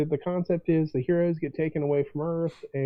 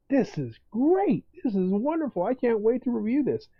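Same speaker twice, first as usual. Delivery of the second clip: mock delight; 7 semitones higher than usual. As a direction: gush like a thrilled reviewer, a little hammed-up. Imagined delighted reviewer.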